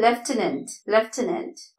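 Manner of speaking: "ലെഫ്റ്റനന്റ്" with an f sound; model pronunciation. Shown as a demonstration. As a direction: say "ലെഫ്റ്റനന്റ്" starting "left". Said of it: "ഇതിൽ എഫ് എങ്ങും കാണുന്നില്ല". ("ലെഫ്റ്റനന്റ്", എഫ് ശബ്ദത്തോടെ)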